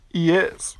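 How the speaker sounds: just breathe the yes; whispered yes. Real, not acted. Quick answer while recording.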